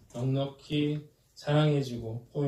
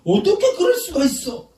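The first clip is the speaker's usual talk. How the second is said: high, loud mock-indignant cry; outraged disbelief; 13 semitones higher, 10 dB louder than usual. Shown as a demonstration. Showing congregation how anger starts, outraged disbelief. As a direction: hurl it out as an exaggerated accusation. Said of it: "이러니까 화가 나는".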